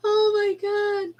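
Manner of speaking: high, slow laughing oh my God; laughing disbelief. Real, not acted. Reacting to the kid's answer, high laughing squeal.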